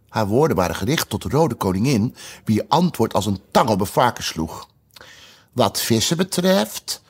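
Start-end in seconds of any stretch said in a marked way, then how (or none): 5.5-7.0 slow, solemn, drawn-out. Acted. Red queen at Alice's ear, slow and solemn. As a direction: weigh each word solemnly. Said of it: "zei ze heel langzaam en plechtig".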